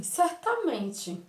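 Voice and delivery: high, slow, drawn-out exclamation; exclaimed certainty. Acted. Boy answering his mother, a high slow exclamation. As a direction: sing out the word as a proud exclamation. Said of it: "Um pontinho aí de exclamação".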